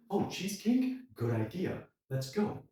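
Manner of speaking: high, delighted "Oh, cheesecake"; agreeing happily to dessert; pleased reaction. Shown as a demonstration. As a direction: welcome the idea gladly. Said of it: "as a way of saying good to say".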